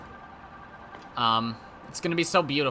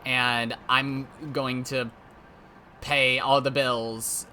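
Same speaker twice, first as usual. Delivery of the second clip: tender romantic; 2 semitones lower than usual. Retold or imitated. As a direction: lay it on like a movie lover. Acting dream soulmate speech.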